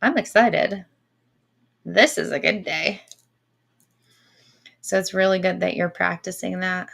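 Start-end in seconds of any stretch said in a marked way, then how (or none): 0.0-3.0 upbeat excited. Shown as a demonstration. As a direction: lift it up with excitement. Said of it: "change it consciously to".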